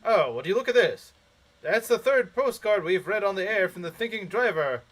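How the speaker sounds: excited radio DJ prize call; lightly voiced hyped radio host; announcer voice. Shown as a demonstration. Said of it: "announcer voice".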